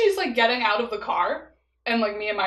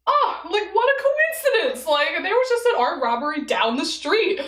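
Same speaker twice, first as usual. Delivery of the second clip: much higher, louder, suddenly sweet; softened cop; 7 semitones higher, 3 dB louder than usual. Retold or imitated. Softened cop chatting to the stranded girls, sweet and high. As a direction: melt into friendly chatter.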